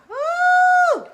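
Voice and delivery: high, loud joyful whoop; excited whoop. Real, not acted. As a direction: let out a burst of release. After the breathing round.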